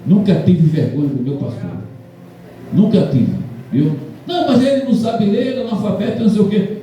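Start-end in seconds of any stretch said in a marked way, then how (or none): 4.3-6.8 scornful gossip. Retold or imitated. People scorning pastor as illiterate.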